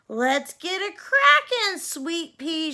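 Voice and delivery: loud, high call to Cindy; shouted. A narrator's reading. Fairy godmother shouting to Cindy to hurry. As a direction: holler it out, bossy and brisk. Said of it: "shouted her fairy godmother".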